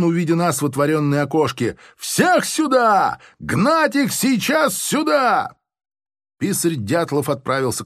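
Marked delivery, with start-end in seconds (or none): 2.0-5.6 high, slow furious shout; major shouting. A narrator's reading. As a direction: bellow the order across the yard. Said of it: "взвизгнул он". (высокий яростный крик, медленно)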